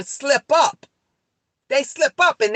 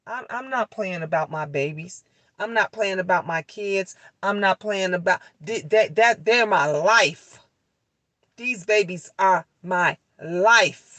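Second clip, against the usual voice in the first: tender sincere; 4 semitones lower than usual. Real, not acted. Tender about her babies.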